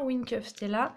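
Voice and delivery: English product name with a French accent. Real, not acted. Crafter names her glitter pen to viewers, French-accented English. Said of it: "Excusez pour mon accent, euh, pas très anglais".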